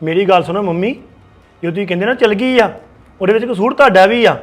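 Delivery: very loud heated yelling; furious shout. Acted. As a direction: hammer the blame at her. Son keeps shouting at mother.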